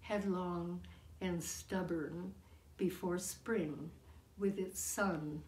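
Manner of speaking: deliberate verse reading with pauses between phrases; poetry reading. Acted. Poet reads tribute to her daughter, deliberate recital. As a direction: recite it line by line, letting each phrase land. Reads own poem aloud.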